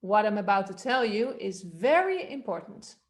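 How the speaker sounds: "What" low, pitch peaking on "very"; low start. Shown as a demonstration. Coach repeating the melody exercise, starting low. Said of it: "Or start low".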